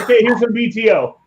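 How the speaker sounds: high-pitched imitation of a band leader; frontman announcing. Singer springing a different song on crowd, hyped up. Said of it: "And then he said".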